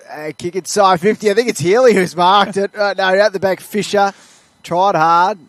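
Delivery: urgent match call; live play-by-play. Real, not acted. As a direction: call the kick as it happens.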